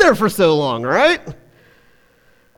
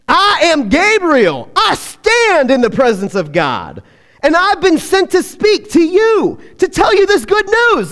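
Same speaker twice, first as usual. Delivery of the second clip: slow and solemn, rising; Gabriel's proclamation; 5 semitones higher than usual. Acted. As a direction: proclaim it like a messenger of God. Gabriel rebukes Zechariah.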